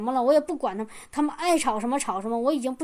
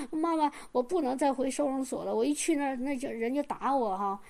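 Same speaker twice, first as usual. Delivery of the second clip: softer, mildly pitiful plea; pitiful pleading; 5 dB quieter than usual. Retold or imitated. Son begging his mother not to send him back, softly pitiful. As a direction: beg your mother a little. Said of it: "他说的那么可怜".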